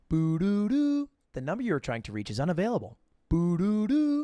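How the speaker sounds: sung three-note tone then fast robotic recording; imitating the phone company recording; phone error tone. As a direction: mimic the disconnected-number message.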